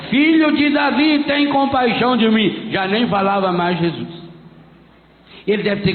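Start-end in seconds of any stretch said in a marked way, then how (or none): 0.1-2.7 higher, louder, shorter shout for mercy; louder cry. Retold or imitated. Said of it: "Mas ele gritava mais alto".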